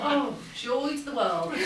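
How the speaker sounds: slow, dry sarcasm through a laugh; sarcastic. Retold or imitated. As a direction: say it as a wry inner groan. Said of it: "I thought".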